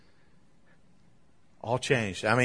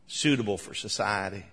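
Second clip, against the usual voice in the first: quiet echo; 3 semitones lower, 5 dB quieter than usual. Shown as a demonstration. Preacher softly repeating "Suitable for society" to the congregation. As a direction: repeat "Suitable for society" softer and lower, letting it sink in.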